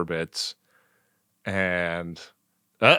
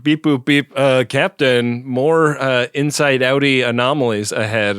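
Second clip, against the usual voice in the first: beeping officer report, slightly higher; robotic crew voice; 3 semitones higher, 3 dB louder than usual. Retold or imitated. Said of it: "somebody's like".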